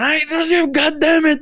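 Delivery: very high, loud mock fury; hammed-up angry yell; imitated angry outburst. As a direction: blow up like an exasperated grandfather. Imitates angry grandfather kicking him.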